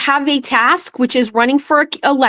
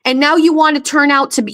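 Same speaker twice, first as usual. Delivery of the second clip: ordinary talk, nothing marked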